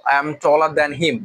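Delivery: very slow, stress on taller; slow example. Shown as a demonstration. Teacher reading the spoken-English example slowly. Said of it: "আমরা him দিলেও কোনো সমস্যা নাই".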